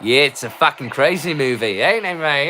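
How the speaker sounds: put-on a light, loose Australian accent. Drunk vlogger to his viewers, a mild Australian accent. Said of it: "My Australian accent isn't great".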